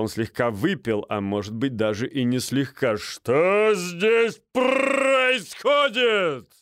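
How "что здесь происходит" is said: very slow, much higher, loud roar; growled roar. A narrator's reading. Major Минц bursting in drunk, slow booming roar. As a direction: bellow like a tipsy major. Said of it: "прорычал он".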